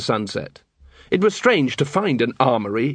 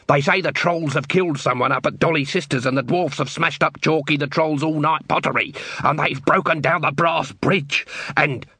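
rumour-spreading Dibbler; 3 semitones higher than usual. Acted.

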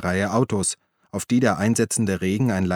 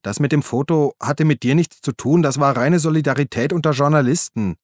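Uli's voice, higher and a little louder; Uli, pleading; 5 semitones higher, 3 dB louder than usual. Acted. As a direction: call after him, placating. Uli defends the photo. (Uli ruft beschwichtigend hinterher, höhere Stimme)

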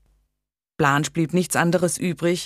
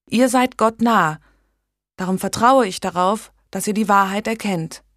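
a lightly voiced young woman, higher, pressing her case; earnest young lady; 4 semitones higher, 3 dB louder than usual. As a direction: urge the king earnestly, a little higher and louder. Megan persuades the king.

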